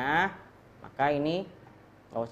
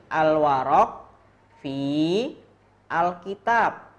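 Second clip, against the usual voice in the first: Al-warok fi al-kitab, louder with pauses; clear model reading; 3 semitones higher, 4 dB louder, slower than usual. Shown as a demonstration. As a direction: read Al-warok fi al-kitab out strongly. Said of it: "cara bacanya gini".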